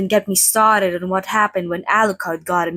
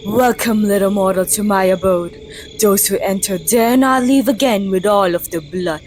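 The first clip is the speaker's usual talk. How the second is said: spooky vampire greeting. Acted. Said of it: "Was that good?".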